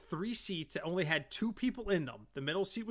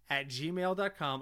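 spelled out slowly; slower than usual. Real, not acted.

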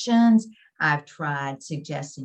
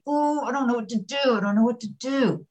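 higher, quick flustered repetition; mock fight-or-flight panic; 5 semitones higher than usual. Speaker demonstrates fight or flight to listeners, mock panicky. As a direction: act out a helpless little panic. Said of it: "go into that fight or flight".

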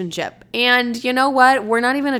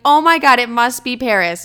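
excited gasp; 3 semitones higher, 6 dB louder than usual. Retold or imitated. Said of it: "You're gonna be like".

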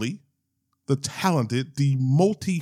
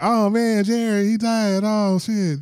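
higher, louder mock lament; mock dismay; 9 semitones higher, 4 dB louder, slower than usual. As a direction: play an exaggerated "what a shame" reaction. Imagines friend reacting to death.

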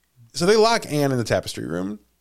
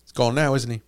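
stiff upper lip; 4 dB quieter than usual. Retold or imitated. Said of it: "stiff upper lip thing".

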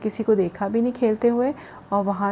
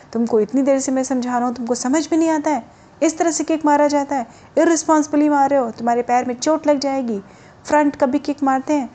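indignant telling-off, getting faster; angry coach; 2 semitones higher, 3 dB louder than usual. Acted. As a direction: tell off a careless pupil with rising exasperation. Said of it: "उनको बहुत गुस्सा आ गया".

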